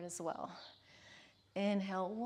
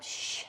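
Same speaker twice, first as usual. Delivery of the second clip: exhale hiss. Shown as a demonstration. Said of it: "Exhale on the up".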